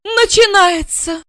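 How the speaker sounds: very high, slow outraged repeat of the name; flaring up. A narrator's reading. Wife flaring up on hearing the rival's name. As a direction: flare up at the name. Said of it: "подумала Ася".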